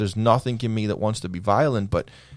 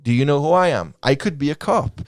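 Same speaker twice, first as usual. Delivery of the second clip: mounting challenge; 3 semitones higher, 4 dB louder than usual. Retold or imitated. Replaying confrontation thoughts, building.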